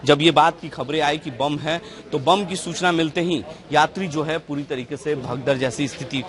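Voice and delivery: loud, projected field-reporter delivery; news report. Real, not acted. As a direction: report it firmly to the viewers. Reporter's piece to camera.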